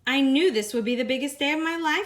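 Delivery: joy spilling over; thrilled. Acted. Lily delighted after walking the aisle, thrilled.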